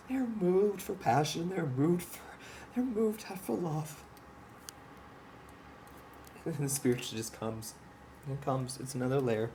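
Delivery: holding back tears mid-thought; emotional. Real, not acted. Speaking of love for soldiers, choked up. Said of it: "Sorry, I'm a little emotional".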